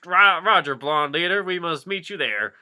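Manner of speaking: radio reply. Acted. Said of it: "came a voice from the radio".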